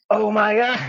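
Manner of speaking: high, stretched-out squeal of disbelief; retold amazement. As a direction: reenact being floored by great news. Retelling reaction to being hired.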